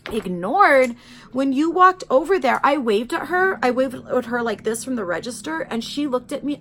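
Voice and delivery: loud, high, indignant outburst; imagined yell. Pretend. Telling viewers what she wished she'd yelled at the customer, loud and high. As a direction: yell it out as if defending yourself. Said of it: "what I wanted to yell out".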